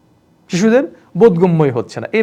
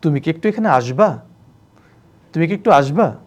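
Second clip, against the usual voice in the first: sweet to wife. Shown as a demonstration. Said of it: "আরো গদগদ হয়ে গেছে".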